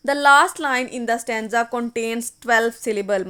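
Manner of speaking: reading the rule. Shown as a demonstration. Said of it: "next हम शर्त पढ़ेंगे ना".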